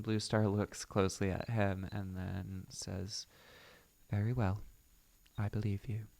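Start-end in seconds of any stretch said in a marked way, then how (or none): 4.1-6.1 put-on brief British-accented verdict.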